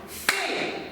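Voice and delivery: "Fait" as one isolated beat; single clapped syllable. Shown as a demonstration. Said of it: "je vais segmenter et vous allez le faire".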